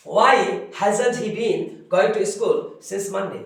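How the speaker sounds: each word slow and separate; slow dictation read. Shown as a demonstration. Teacher to students, reading the answer very slowly. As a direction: spell it out for the class.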